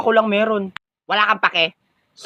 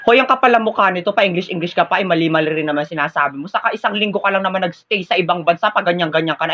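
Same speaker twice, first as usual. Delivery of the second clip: ordinary delivery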